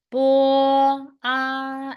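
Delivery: "Bo" then "ah", each held and sung out; blending syllables. Shown as a demonstration. Teacher blending the sounds for the class. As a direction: join "Bo" and "ah" clearly. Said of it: "So how to make it together".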